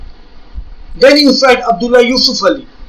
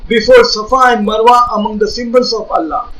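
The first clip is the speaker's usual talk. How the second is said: read again with emphasis; 2 semitones higher than usual. Shown as a demonstration. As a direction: read it out again firmly so the point lands. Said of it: "I, I read for you again".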